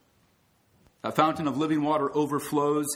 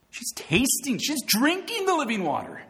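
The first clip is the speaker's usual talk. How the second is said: excited preaching; 10 semitones higher than usual. Acted.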